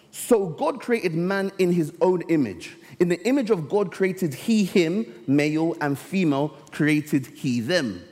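preacher reading the Bible to the church, slow and solemn; scripture reading. Acted. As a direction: lift the text out slowly for the congregation. Reads scripture aloud.

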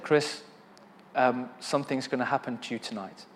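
hushed, soft inner voice; quiet voice of God in the spirit; still small voice. Retold or imitated. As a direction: speak it softly like a voice within. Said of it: "the still small voice in my spirit".

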